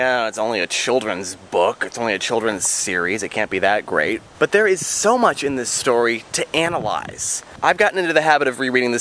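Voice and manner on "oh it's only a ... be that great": lower, dismissive mock objection; mild scoffing. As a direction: imitate a sceptic brushing it off, pitched down. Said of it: "you might scoff and say".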